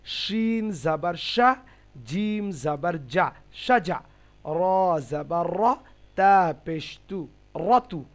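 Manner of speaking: slow letter-by-letter spelling; teacher spelling out Arabic slowly; spelling demo. Shown as a demonstration. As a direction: model each letter slowly for the class. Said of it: "এভাবে পড়বো".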